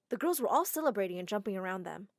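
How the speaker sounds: ordinary delivery, nothing marked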